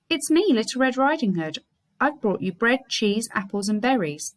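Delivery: mock little-girl pitch from the wolf; disguised wolf voice. The wolf at grandma's door, faking a girl's voice. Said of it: "disguising his voice".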